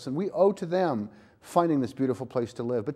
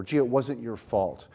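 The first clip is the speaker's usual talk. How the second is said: slow, lowered, patronizing reassurance; mock condescending; 5 semitones lower, slower than usual. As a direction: play at talking down to the kid, slowly. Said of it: "avoid things that are condescending".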